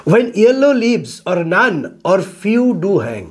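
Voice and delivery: slow, measured verse reading; poem recitation. Shown as a demonstration. Teacher reading a Shakespeare sonnet to students, slow recitation. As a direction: read the line out slowly, word by word. Reads sonnet line to class.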